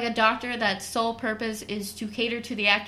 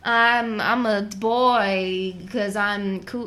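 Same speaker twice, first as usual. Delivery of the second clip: put-on bratty teen girl; much slower than usual.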